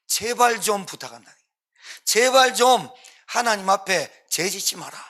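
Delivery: pleading on one's knees. Acted. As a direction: beg them earnestly, leaning on each word. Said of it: "왜 엎드렸을까요". (엎드려 간절히 부탁하듯)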